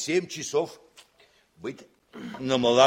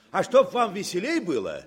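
joking laugh; 3 semitones higher than usual. Acted. Commander jokes cadet will go along.

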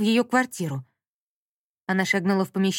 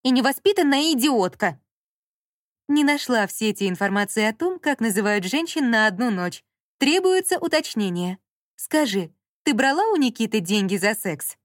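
insolent speaker; 3 semitones higher than usual. Acted. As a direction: probe coldly to wound. Speaker's insulting queries.

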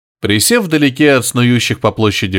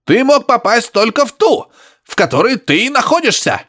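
high grunting exclaim through static; grunting professor; 10 semitones higher than usual. Acted. Professor protesting to Harry over radio, high grunting. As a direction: squeal it out like a grunting old man.

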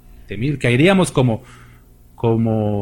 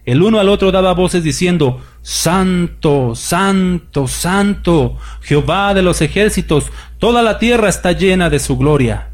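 raised, declamatory Bible reading to the church; scripture reading; 3 semitones higher than usual. Acted. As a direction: read the vision like a proclamation from the pulpit. Reads Isaiah 6 aloud. (lectura bíblica declamada y elevada)

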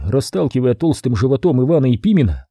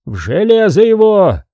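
higher, loud command; ordering shout; 7 semitones higher, 4 dB louder than usual. A narrator's reading. Pimen orders Ivan chained, loud command. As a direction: order him clapped in irons. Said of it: "крикнул Пимен".

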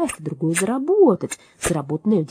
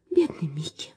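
soft, breathy whisper of pity; sighing whisper; 4 semitones lower, 4 dB quieter than usual. Acted. Beaver Ива pitying the green mouse in a whisper. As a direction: sigh it out under your breath. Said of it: "вздохнула Ива".

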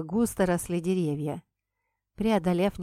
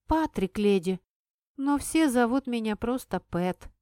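put-on brisk boy report; 3 semitones higher than usual. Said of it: "бодро отрапортовал мальчишка".

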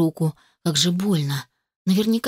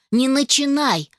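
sharp interruption; 6 semitones higher than usual. Acted. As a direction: snap out, cutting him off. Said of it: "перебила его я". (резко перебивая)

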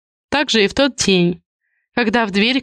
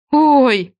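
startled gasp; 5 semitones higher, 3 dB louder than usual. A narrator's reading. Sudden fright.

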